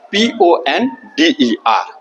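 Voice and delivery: letters read out a little slowly; teacher spelling the word for the class. Shown as a demonstration. Teacher spells the word before dictating it, slightly slow. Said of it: "वो word क्या है देखिए".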